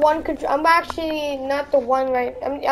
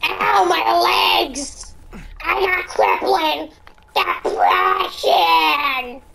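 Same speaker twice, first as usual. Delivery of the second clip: mock wailing; 2 semitones higher, much slower than usual. Mock pain after fall.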